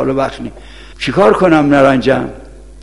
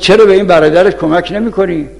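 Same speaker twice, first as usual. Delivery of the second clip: mildly raised voice of a scolding mother; imitated telling-off, not a full yell; retold scolding; 3 semitones higher than usual. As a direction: retell a mother's reproach, only slightly raised. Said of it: "مادر شیخ انصاری داد زد سر شیخ انصاری".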